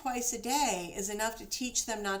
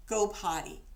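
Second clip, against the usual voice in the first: potty command. Shown as a demonstration. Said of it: "and say".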